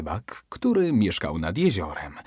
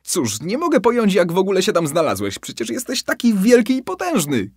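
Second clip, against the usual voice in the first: high, louder flattering cry; shouting; 8 semitones higher, 4 dB louder than usual. Acted. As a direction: egg him on with loud mock awe. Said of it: "krzyknął rybak".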